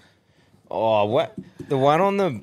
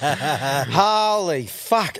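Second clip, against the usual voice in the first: laughing exclamation; much slower than usual. Real, not acted. Reacting to caller's wild story.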